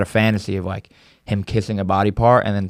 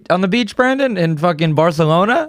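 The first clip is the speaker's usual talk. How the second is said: excited; 6 semitones higher than usual. Real, not acted. Excited recall at friend.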